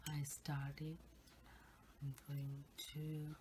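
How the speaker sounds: ASMR whisper. Real, not acted.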